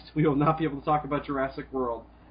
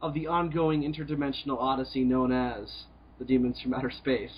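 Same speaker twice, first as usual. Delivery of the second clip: grand show host intro; announcer intro. Acted. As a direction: open the show like a big announcer.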